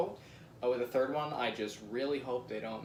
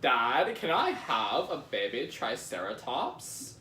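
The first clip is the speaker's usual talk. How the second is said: put-on slow Valley Girl plea; slower than usual. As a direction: beg like a spoiled Valley Girl. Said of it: "I was doing a Valley Girl voice".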